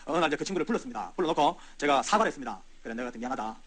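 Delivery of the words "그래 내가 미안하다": retold weeping apology, hushed and low; tearful apology. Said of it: "이러면서 울었죠".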